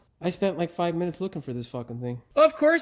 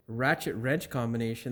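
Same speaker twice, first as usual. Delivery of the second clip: puzzled repeat; 5 semitones lower, 3 dB quieter than usual. Real, not acted. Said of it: "That doesn't make any sense".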